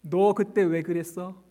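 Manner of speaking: a hint of the reproach, slow and light; mock scolding. Preacher lightly echoing the imagined rebuke, half-joking. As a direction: toss off the rebuke half-amused. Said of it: "우리의 과거를 묻지 않으세요".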